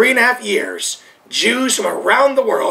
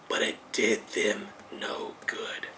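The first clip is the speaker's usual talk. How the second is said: a soft whisper, much lower; stage whisper; 13 semitones lower, 16 dB quieter than usual. Real, not acted. Preacher to his congregation, in a hushed whisper. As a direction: breathe it out as a quiet warning.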